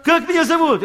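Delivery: высокий, громкий голос старого друга; допытываться громко и высоко; напористый расспрос. Retold or imitated. Old friend quizzes him excitedly. (напористо, почти криком)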